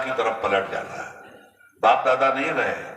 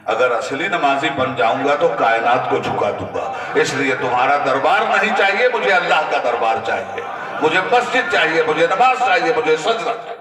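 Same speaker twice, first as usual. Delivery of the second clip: louder and louder, ending in a passionate cry; fervent vow; 3 semitones higher, 5 dB louder than usual. Retold or imitated. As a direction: build each "चाहिए" into a ringing declaration. Impersonator's fervent vow climaxes. (बढ़ते जोश में ऊंची आवाज़ से पुकारना)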